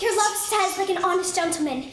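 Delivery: quick mocking imitation; mimicking the nurse. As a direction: parrot her words back fast. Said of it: "Where is your mother?".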